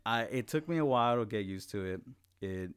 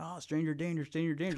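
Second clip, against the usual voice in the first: mock scared kid; 8 semitones higher than usual. Kid crying at school.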